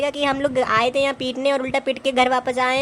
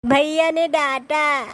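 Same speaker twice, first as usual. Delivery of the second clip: put-on sulky child; 5 semitones higher, much slower than usual. Child sulking to sister-in-law.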